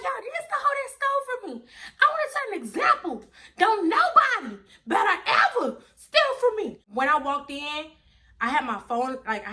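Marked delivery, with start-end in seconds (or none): 0.0-6.8 much higher, loud, fast, laughing call-out; telling the neighbors she caught the thief; loud announcement. Retold or imitated. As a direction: broadcast it to everyone.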